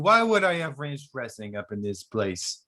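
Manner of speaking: high, indignant hammed-up Italian; mock Italian accent. Italian waiter mocks a ranch request, in a high hammed-up Italian accent. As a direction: scoff at the cowboy customer in a high Italian voice.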